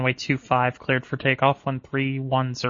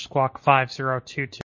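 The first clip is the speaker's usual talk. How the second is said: radio cutting out on the last number; buffering stutter. Real, not acted. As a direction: transmission dropping out mid-word. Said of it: "you cut out there at the last number".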